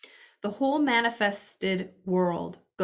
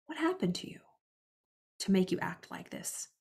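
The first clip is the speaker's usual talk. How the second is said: compassionate asking; 5 dB quieter than usual. Shown as a demonstration. To someone acting out, a light caring lilt. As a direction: lift it up as a caring question. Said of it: "it's like".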